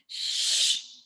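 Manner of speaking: a breathy hush, no voice at all; whispered shush. Retold or imitated. Speaker to her own nagging inner voice, whispered shush.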